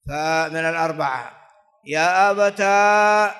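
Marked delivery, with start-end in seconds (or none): 1.9-3.3 يا أبتا drawn out slowly and louder; teacher spelling out يا أبتا slowly; slow drilled form. Shown as a demonstration. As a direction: stretch يا أبتا to show the alif. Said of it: "بالألف،".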